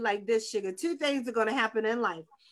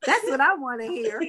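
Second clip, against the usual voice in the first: laughing okay; 7 semitones higher, slower than usual. Retold or imitated. Laughing relief at husband's answer.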